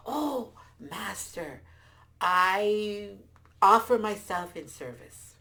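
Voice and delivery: slow, swelling pledge of service; submissive servant. A narrator's reading. Lion offering itself to a big beast, submissive. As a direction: draw out the vow, building to a loud finish.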